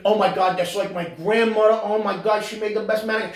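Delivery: a hint of hammed-up rapture; mock gushing fan. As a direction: imitate someone doting on grandma. Mimics gushing Italian-American viewers.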